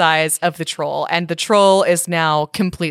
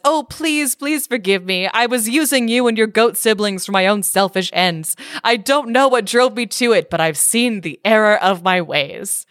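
pleading troll; 3 semitones higher than usual. Retold or imitated. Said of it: "falls down on his knees and says".

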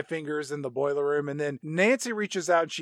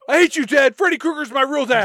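loud, high bratty yell at dad; hammed-up teenage outburst; mock angry teen; 8 semitones higher, 9 dB louder than usual. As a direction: scream it like a sulking teenager. Mocking Quentin storming out.

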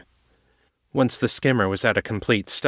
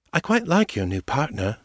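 The speaker's voice; 6 semitones higher than usual. A narrator's reading.

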